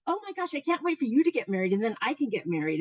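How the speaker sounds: put-on quick, lightly gushing girlish chatter; dreamy young sisters. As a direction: imitate eager sisters chattering away. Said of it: "they're young and they're dreamy and they're idealistic".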